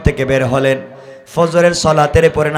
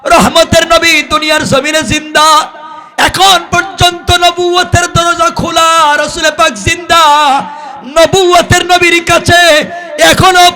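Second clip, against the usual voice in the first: high, impassioned chanted appeal; calling out; 13 semitones higher, 6 dB louder than usual. Retold or imitated. Youth begs Omar to take him to the Prophet, chanted call. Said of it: "যুবক ডাক দিয়ে বলছে".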